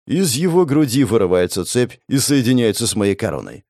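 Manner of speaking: ordinary delivery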